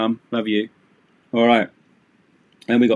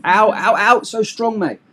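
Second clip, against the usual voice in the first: mock pain; 9 semitones higher than usual. Arm twisted in play.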